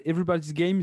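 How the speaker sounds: title said in a lightly put-on English accent; a slightly showy English accent on the title; mock English accent. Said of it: "t'as vu mon accent anglais un peu incroyable". (léger accent anglais un peu frimeur)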